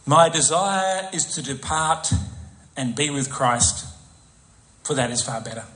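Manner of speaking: slow, sinking reverent read. Shown as a demonstration. Preacher reading Paul's longing slowly and reverently. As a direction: let it sink slowly, reverently. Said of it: "What do you think of that?".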